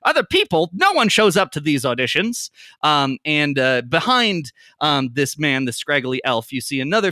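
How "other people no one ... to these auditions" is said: high, incredulous "what?"; the angry figure baffled by strangers at the door; indignant disbelief. Acted. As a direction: scoff that nobody ever comes. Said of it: "the one who is angrily pointing".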